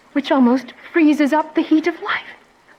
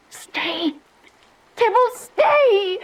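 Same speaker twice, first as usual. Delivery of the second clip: high, slow, pleading call; a frantic plea to the vision; desperate plea; 5 semitones higher, much slower than usual. Acted. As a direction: beg the ghost to stop. Juliet pleads with the ghost.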